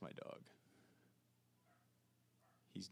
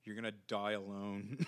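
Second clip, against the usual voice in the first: mean. Retold or imitated. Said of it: "go incredibly mean now".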